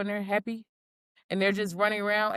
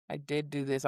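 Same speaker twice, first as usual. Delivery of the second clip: guilty dog voice; 7 semitones lower, 8 dB quieter than usual. Retold or imitated. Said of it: "They're like".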